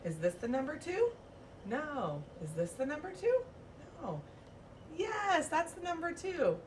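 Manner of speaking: mock puzzled teacher searching, high on yes; hammed-up hunt for the two; playful search. Shown as a demonstration. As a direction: play not finding the number. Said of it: "I say".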